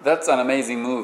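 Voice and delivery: That's an amazing move with the intonation gone flat; That's an amazing move said level, no rise or fall; flattened intonation. Shown as a demonstration. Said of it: "イントネーションが平坦になった". (平坦なイントネーションで)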